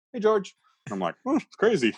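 high excited hey George; starstruck reply. Retold or imitated. Comedian meeting his hero, high starstruck gushing. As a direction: gush like a starstruck fan.

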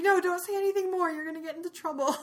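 hammed-up squeaky elf plea; pleading Winky. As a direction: beg him to stop like a frantic house elf. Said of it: "poor Winky's like".

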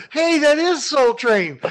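high, slow thrilled call; excited exclamation. Retold or imitated. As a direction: belt it out in delight. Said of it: "you're gonna go".

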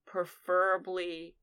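softly, haltingly polite; composed request. Acted. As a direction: ask politely after a steadying breath, pausing between phrases. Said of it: "take a deep breath".

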